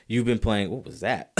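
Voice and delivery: choking on a swallowed bug; just swallowed a bug. Real, not acted. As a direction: sputter as if a bug went down. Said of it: "It's like I swallowed a bug".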